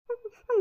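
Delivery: short, high-pitched sob; acted sob. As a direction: sob briefly through the tears. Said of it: "रडू नको बाई एवढी".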